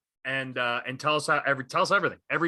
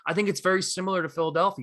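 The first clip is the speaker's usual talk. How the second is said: higher, measured praise in his voice; Diddy being rational; 6 semitones higher, faster than usual. Retold or imitated. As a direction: concede the point calmly, pitched up. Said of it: "He's like".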